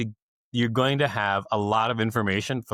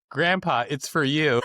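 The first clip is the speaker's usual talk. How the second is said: put-on kid yelling; 5 semitones higher than usual. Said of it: "looking over his shoulder yelling".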